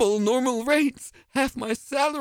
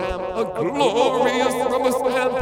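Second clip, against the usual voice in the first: grandly savoured; 4 semitones higher, 4 dB louder, slower than usual. Acted. Ghost relishing the word.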